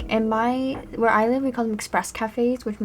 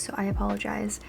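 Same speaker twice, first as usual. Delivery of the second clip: whisper; 6 dB quieter than usual. Real, not acted. Apology after annoying noise.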